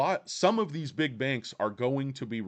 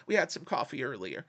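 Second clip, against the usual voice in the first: big banker voice; 3 dB quieter, faster than usual. Retold or imitated. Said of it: "doing my big banker voice".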